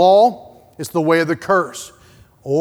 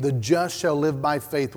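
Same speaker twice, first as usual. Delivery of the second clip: hushed "The just shall live by faith"; gentle quiet repeat; soft, intimate restatement; 4 semitones lower, 5 dB quieter than usual. Shown as a demonstration. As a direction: drop the voice for the verse. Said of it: "one more time".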